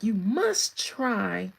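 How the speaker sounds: slow, loud mock Russian accent; imitated Russians. Russians pressing a dish on a visitor, insistent mock Russian accent. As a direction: lean hard on "must" in a put-on Russian accent. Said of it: "and they said".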